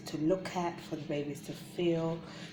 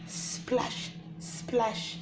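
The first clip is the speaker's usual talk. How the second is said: splashing sound; 7 semitones higher than usual. Shown as a demonstration. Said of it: "a turtle splashing in the water".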